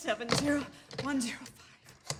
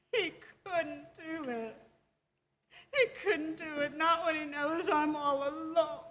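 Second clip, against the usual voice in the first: tearful. Acted. Wife abandoned, alone on phone.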